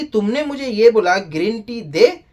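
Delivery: a touch of wounded indignation; mock indignant retelling. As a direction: act out her complaint that he ordered her around. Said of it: "सारा ये बोलती है कि".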